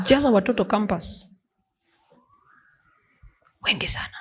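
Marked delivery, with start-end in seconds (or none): 3.6-4.2 whispered aside. Acted. Aside on campus pregnancies.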